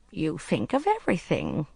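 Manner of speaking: a touch of admiration, lightly voiced; admiring. Mrs. Polyfax praising the agent's planning, mildly admiring. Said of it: "she told him admiringly".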